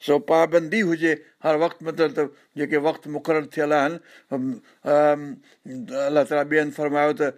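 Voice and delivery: normal talking voice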